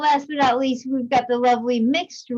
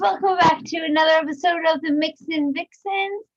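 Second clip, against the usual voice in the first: loud, high-pitched host welcome; big, yelled-out greeting to the audience; excited show opening; 6 semitones higher, 3 dB louder than usual. Real, not acted. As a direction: kick off the show at full excitement. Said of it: "Just tone the excitement".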